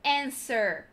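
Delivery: "answer" said as "anser", w silent; correct pronunciation. Shown as a demonstration. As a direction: drop the w in "answer". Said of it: "A pronúncia correta é". ("answer" certo, sem o W)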